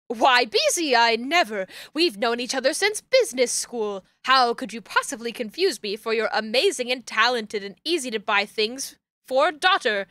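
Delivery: lightly voiced mock-formal old friend; daughter posing as dad. Daughter posing as dad's old friend online, mock-formal. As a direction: play a slightly hammed-up fake gentleman.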